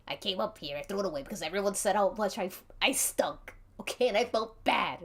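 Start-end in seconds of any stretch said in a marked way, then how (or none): none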